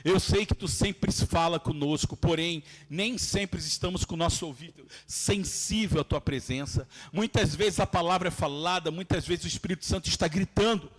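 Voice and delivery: earnest prayer. Real, not acted. Leads prayer before the sermon.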